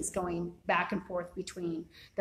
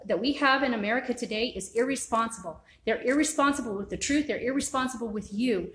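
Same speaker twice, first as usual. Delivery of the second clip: passionate. Real, not acted. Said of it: "I'm passionate about this".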